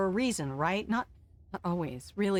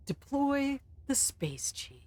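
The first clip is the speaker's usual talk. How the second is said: slow grand command; 6 semitones higher, 3 dB quieter, slower than usual. Acted.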